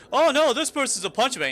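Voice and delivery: put-on taunt, pitched well up; retold mocking. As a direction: imitate a bully jeering to his friends. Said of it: "starts mocking me".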